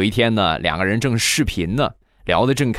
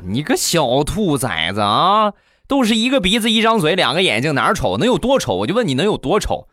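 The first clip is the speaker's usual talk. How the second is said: mock angry mother; 7 semitones higher than usual. Mother scolding her son about his blind date, high and angry. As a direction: scold the brat, pitch climbing.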